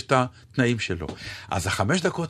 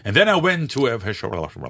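British mumbling comic; much slower than usual. Retold or imitated. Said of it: "קצת ממלמלים".

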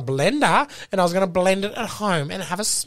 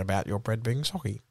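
corporate spokesperson; 14 semitones lower, 8 dB quieter than usual. Acted. Continues corporate voice.

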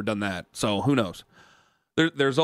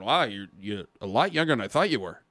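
surprised fan; 6 semitones lower than usual. Retold or imitated. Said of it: "I always get this going".

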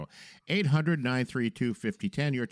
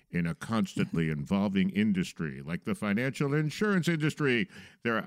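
movie trailer voice. Acted. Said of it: "I should use my movie trailer voice for this".

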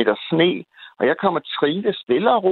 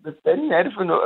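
angry retort; 5 semitones higher, much faster than usual. Retold or imitated. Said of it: "Og så råber han så".

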